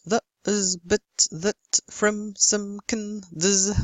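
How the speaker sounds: "the, is, but, that" reduced to schwa vowels; weak forms. Shown as a demonstration. Teacher listing little function words, "the, is, but, that" in weak schwa form. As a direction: reduce "from, some, can, does" to unstressed uh sounds. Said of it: "In weak forms".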